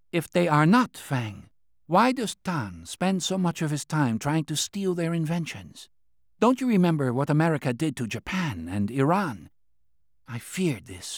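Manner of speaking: lightly voiced anxious official; Qian's voice. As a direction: press the point like a worried old minister. Qian speaks at length.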